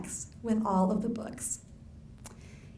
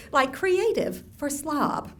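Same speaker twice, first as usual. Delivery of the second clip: slow knowing aside; 4 semitones higher, slower than usual. Shown as a demonstration. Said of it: "Southern lady code".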